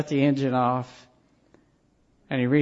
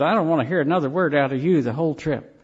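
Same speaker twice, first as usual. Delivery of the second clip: irritated snap; much faster than usual. Retold or imitated. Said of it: "he snapped back".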